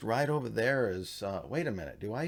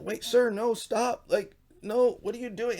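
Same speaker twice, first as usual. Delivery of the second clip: much higher, louder squeaky alarm; panicky protest; 14 semitones higher, 6 dB louder than usual. Retold or imitated. Sethite begs the attacker, high panicked squeal.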